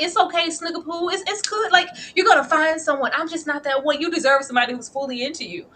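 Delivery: a hint of a condescending mom soothing a child; mock mothering. Mocking her mothering him.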